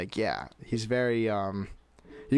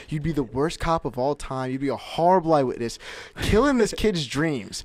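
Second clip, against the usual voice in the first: imitated rant, higher and emphatic; mock tirade, pitched up; ranting professor; 4 semitones higher, 4 dB louder than usual. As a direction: retell a scornful professor tearing into a student. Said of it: "at the end of the rant".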